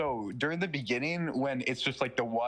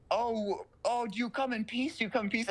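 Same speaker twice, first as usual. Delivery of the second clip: much higher quavering granny question; high mock old lady; 8 semitones higher than usual. Teller voicing the old lady greeting the alien, high and nervous.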